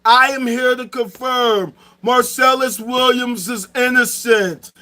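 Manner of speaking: a lightly put-on solemn divine voice, slow in places; a hint of a booming deity, mostly his own voice; voicing Allah. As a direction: play God confirming the truth, measured and grand. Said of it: "and Allah can say".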